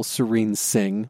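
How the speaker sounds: slow, savoring each syllable; savoring the name. Real, not acted. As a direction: linger lovingly on the name. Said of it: "your name is wonderful".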